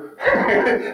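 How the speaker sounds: short, high, breathy chuckle; mocking chuckle. Preacher voicing Satan's lie that suffering lasts forever, mocking chuckle. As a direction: chuckle lightly in mid-quote.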